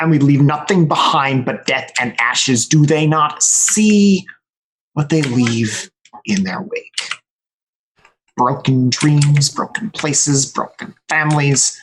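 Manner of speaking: slow, brooding in-character monologue; lamenting soliloquy, heavy with pauses; muttering to himself. Acted. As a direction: draw the words out as if thinking aloud. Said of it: "I'm gonna be muttering to myself".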